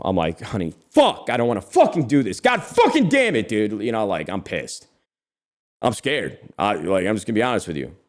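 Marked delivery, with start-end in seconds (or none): 0.4-3.8 frustrated complaint, voice cracking way up on the curse; grumble, then blow up on God damn it; retold angry outburst. Husband cursing to wife before swatting the wasp, half-mocked anger. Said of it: "I was actually fucking pissed off".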